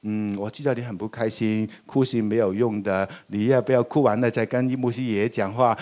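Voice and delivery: put-on calm the little boy down gently; gentle soothing. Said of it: "我就跟他说". (温和地安慰电梯里的小孩)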